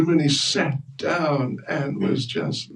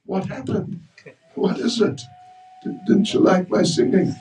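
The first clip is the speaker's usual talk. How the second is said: shocked; 4 semitones higher than usual. Acted. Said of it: "Hanuman was shocked".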